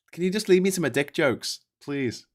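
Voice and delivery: high, exasperated pleading; mock exasperated plea. Real, not acted. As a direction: beg them to let you be.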